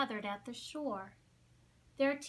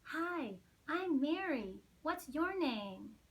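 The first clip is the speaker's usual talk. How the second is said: put-on eager young penguin; 4 semitones higher than usual. Mary chick voiced.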